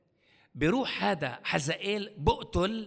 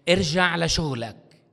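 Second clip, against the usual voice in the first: firm command; 8 dB louder, slower than usual. Acted. God commands Jonah.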